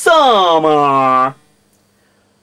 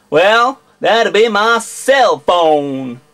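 American accent; 2 semitones higher, slower than usual. Shown as a demonstration. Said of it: "an entire video in an American accent".

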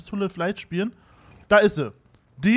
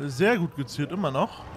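ironic praise; 4 semitones lower than usual. Real, not acted. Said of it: "Damit ist es ironisch gemeint".

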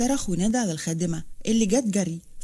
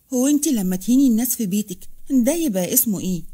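mildly mocking, a bit louder; sarcastic; 4 dB louder than usual. Farah mocks Amina's hypocrisy, sarcastic. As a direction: throw it back at her with scorn. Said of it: "ابتسمت فرح بسخرية".

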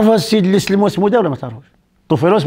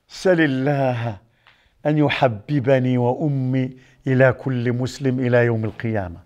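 solemn request; 5 semitones lower, 4 dB quieter, slower than usual. Retold or imitated. Quotes a solemn request in prayer.

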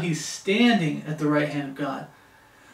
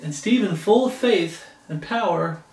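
scripture reading. Acted. Reads scripture aloud.

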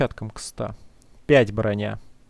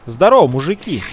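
hailing the guards; 6 dB louder than usual. Pretend. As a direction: call out to the guys at the gate. Окликает стражников в игре. (громкое приветствие)

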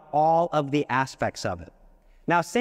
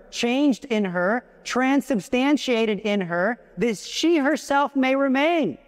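fervent reading; 5 semitones higher than usual. Retold or imitated. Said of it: "This is what Maximilian Kolbe has to say".

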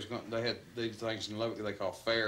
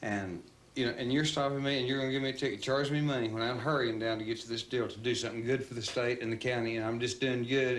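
raised, indignant protest at the cop; mock-confident complaint, a bit louder; cocky attitude; 3 semitones higher, 3 dB louder than usual. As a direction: argue like you're the one wronged. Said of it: "he had that kind of attitude".

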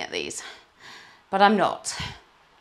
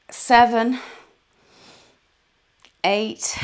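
kettlebell reps; 5 semitones higher, 8 dB louder, much slower than usual. Real, not acted. Counting reps during kettlebell workout.

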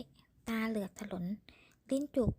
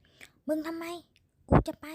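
loud angry male shout; shouted quarrel line; man shouting; 6 semitones higher, 8 dB louder, slower than usual. A narrator's reading. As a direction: yell it at her in a rage. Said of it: "เสียงผู้ชายตะโกนเสียงดัง".

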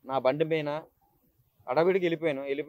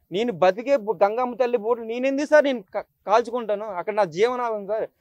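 raised, pleading with the officer, voice straining; retold desperate plea. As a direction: beg the police to believe you, chest-beating in despair. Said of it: "గుండెలు బాదుకున్నాను".

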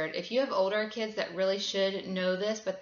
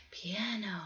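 soft demo; 6 dB quieter than usual. Shown as a demonstration. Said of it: "so I have them whisper".

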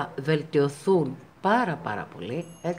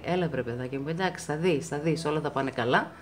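reassuring inner voice; 2 semitones lower than usual. Retold or imitated. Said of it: "μια φωνίτσα που σας λέει".

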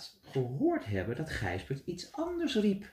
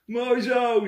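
satisfied; 7 semitones higher, 6 dB louder than usual. Acted. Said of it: "zei de melkboer tevreden".

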